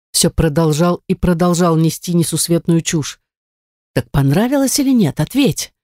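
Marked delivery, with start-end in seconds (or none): 3.9-5.7 higher-pitched, insistent questioning; angry demand. Acted. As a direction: press hard for an answer without raising volume. Man angrily demands an answer.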